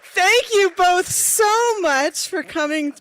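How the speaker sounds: announcer voice. Real, not acted. Host thanks guests on mic.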